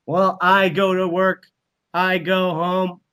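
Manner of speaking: hint of a monotone worker drone reciting a routine; robot-like drone. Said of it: "we would literally all be robots and automatons".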